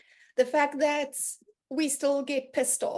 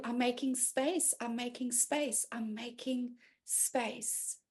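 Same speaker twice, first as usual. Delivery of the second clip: fading mantra; 2 semitones lower, 7 dB quieter, slower than usual. Retold or imitated. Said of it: "I sat bawling and I just kind of knew".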